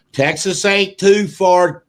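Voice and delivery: normal talking voice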